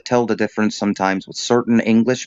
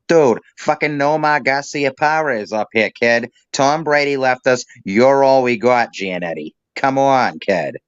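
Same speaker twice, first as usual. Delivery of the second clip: put-on Boston accent. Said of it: "didn't sound like that".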